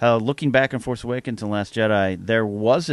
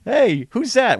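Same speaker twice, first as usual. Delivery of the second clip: Gwyneth imitation; 12 semitones higher, 5 dB louder, slower than usual. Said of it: "clips of her being interviewed".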